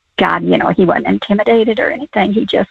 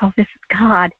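awed whisper. Retold or imitated. Inner realization of God's voice.

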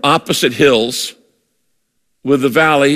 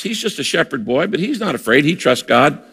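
normal talking voice

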